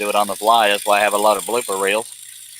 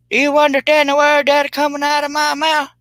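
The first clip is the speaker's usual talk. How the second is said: high, loud movie-line shout; Rush Hour quote; 5 dB louder than usual. Retold or imitated. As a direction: yell it like Chris Tucker's famous line. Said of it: "That was from Rush Hour".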